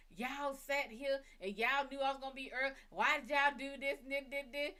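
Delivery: a hint of an angry rant; lightly acted scolding; mock yelling. To the ancestors she yells at, mild mock scolding. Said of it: "yelling at them like".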